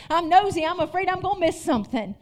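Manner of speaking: quick, punchy imitation of mom; mild impression of a nosy mom; mom's way of saying it. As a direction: hurry the line the way mom did. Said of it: "That's how she'd say it".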